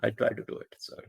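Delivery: high put-on Pakistani accent; hammed-up Pakistani accent. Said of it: "the Pakistani accent".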